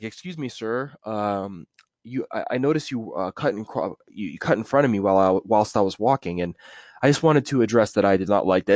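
lightly mocking a polite man; overly polite complaint. Polite stranger complaining about being cut off, mild prim voice. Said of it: "it's not like".

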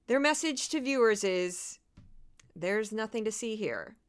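measured podcast report read; scripted news read. Acted. Podcaster reads her Fox News coverage summary, scripted report delivery. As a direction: read out a prepared news overview.

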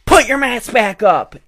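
the stewardess shouting at an out-of-breath passenger, slow and high; stewardess yelling. Retold or imitated. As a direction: snap the order the way she barked it. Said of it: "the stewardess yells at her".

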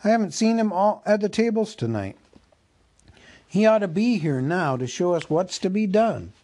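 a cheery elf looking for the butler, high and bright; merry elf. Acted. Elf to his fellows in the cellar, high and calling.

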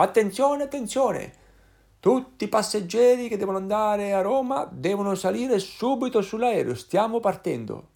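high, loud tannoy announcer; airport announcement. Retold or imitated. Boarding call to passengers for Rome, loud announcer voice. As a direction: call it out over the loudspeaker, slowing at the end.

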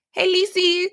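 high singsong phone hello; light, high-pitched motherly hello. Retold or imitated. Mom's usual greeting on answering the phone.

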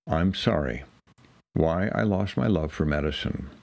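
low, solemn title reading; dramatic reading. Acted. Reading a disillusioned physician's essay as their own, dramatic reading. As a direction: intone the title low, with a weighty pause. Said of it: "read it aloud in dramatic fashion".

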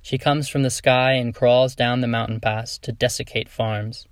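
measured, even poem recital with pauses between lines; poetry reading. Acted. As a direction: read the poem aloud, clearly articulated, line by line. Reads own poems aloud.

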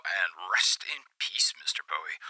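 hushed tribute. Acted. The DJ pays tribute to a late singer on air, in a hushed whisper. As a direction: breathe it out like a quiet farewell.

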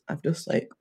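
ill, creaky vocal fry. Real, not acted. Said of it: "got extreme vocal fry".

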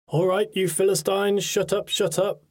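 put-on booming Welsh accent. A narrator's reading. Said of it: "boomed his deep Welsh accent".

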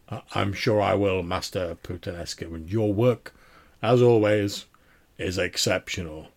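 loud, grand baron; big, emphatic praise in character; deep-voiced man. Baron praising the tailor's work, grand deep-voiced man. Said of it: "this deep-voiced man".

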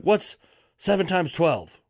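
high-pitched imitation of a demanding lady; mock yelling. Old boss quizzing the room on simple sums, mock yelling. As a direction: call out the question, mock-yelling. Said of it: "this old lady is yelling".

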